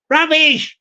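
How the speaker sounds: "Rubbish!" bursting into laughter; can't hold it in, laugh through it. Acted. Neighbour's answer to the canvasser, cracking up laughing.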